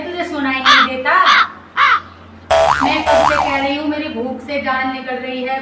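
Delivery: lightly voiced nagging mother-in-law; scolding mother-in-law. Mother-in-law berating her daughter-in-law over tea, mildly nagging.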